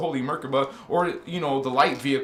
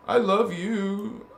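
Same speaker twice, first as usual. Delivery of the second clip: slow tender; 3 semitones higher, much slower than usual. Shown as a demonstration. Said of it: "I will show you love".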